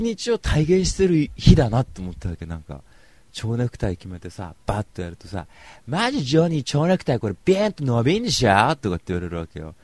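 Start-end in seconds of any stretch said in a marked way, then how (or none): 5.9-8.7 higher, louder imitation of a brash girl; loud-voiced party girl. Party girl teasing Johnny about bow tie, loud imitation. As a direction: blurt it high, like a brash girl. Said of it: "やたらと声がでかい".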